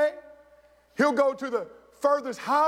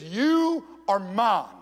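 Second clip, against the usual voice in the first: tender parent; 3 semitones lower, much slower than usual. Acted. Parent tells adopted child he belongs.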